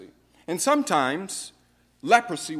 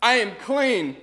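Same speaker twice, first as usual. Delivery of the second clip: joyful cry; 4 semitones higher, 7 dB louder than usual. Acted. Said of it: "but to say".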